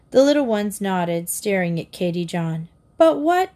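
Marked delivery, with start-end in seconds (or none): 3.0-3.5 high, louder startled question; stammered dismay. A narrator's reading. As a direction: blurt it in dismay, pitch jumping up. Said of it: "Katy stammered".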